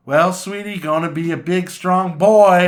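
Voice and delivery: put-on old woman voice. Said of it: "And then he went like".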